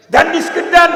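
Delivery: put-on high, loud child's nagging demand; whiny shout. A child nags his mother for biscuits, shouting high. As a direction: nag like a child out of patience.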